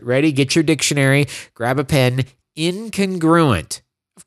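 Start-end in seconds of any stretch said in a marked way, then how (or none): 2.6-3.8 very slow, spelled out; slow new word. Shown as a demonstration. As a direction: Incongruent said slowly, syllable by syllable. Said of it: "new word alert".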